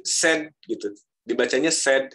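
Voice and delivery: said as "sed", spelled S-E-D in sound; "said" rhyming with "bed"; clear E. Shown as a demonstration. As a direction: say "said" with a clear short E. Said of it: "E-nya jelas".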